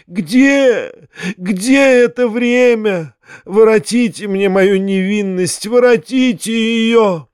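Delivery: high, theatrical wail with stretched vowels; feverish raving. A narrator's reading. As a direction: lament grandly, as if delirious. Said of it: "как будто был в жару и в бреду".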